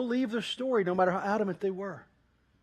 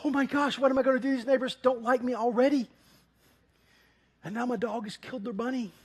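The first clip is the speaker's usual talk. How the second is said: panicked Ken; 4 semitones higher than usual. Retold or imitated. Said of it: "He's like".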